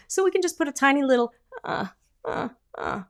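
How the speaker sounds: small, thin fry-like uh sounds; a tiny whiny sound on the cords. Shown as a demonstration. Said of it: "Sometimes I call this a tiny whiny".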